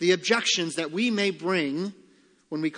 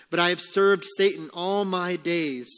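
emphatic, pressed objection; protesting sinner; 2 semitones higher, 4 dB louder than usual. Acted. Preacher voicing one who served Satan, protesting. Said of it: "say you".

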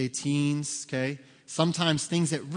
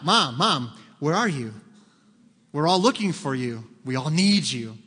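louder mock children calling out; kids calling mom; 4 dB louder than usual. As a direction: call for mom like little kids hunting for her.

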